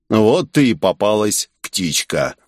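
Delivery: a hint of a growling mercenary. Mercenary taunts the trapped girl, growling. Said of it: "прорычал наёмник".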